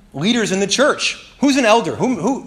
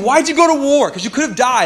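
high, louder questioning voice; interviewer asking; 9 semitones higher, 4 dB louder than usual. Retold or imitated. Interviewer pressing veterans on going to war, raised and probing.

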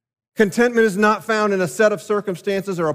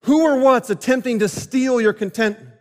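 pressing question; 5 semitones higher than usual. Shown as a demonstration. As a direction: press the question home on the congregation. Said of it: "Who or what is attempting".

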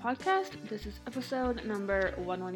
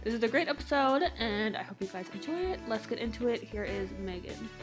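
talking around a mouth retainer; slight lisp, plastic in the mouth; lisp from jaw surgery. Real, not acted. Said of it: "so if it sounds like I have a lisp".

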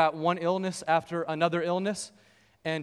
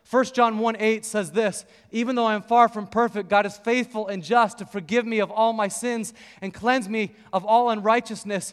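raised, pressing scripture recital; a hint of a fervent preacher; preacher mode; 3 semitones higher, 3 dB louder than usual. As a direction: preach it to the man across the table. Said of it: "after about five or ten minutes of preacher mode".

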